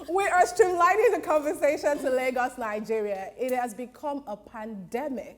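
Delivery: lightly mock newsreader; resume the bulletin with put-on formality; news anchor. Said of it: "welcome to the nine o'clock news".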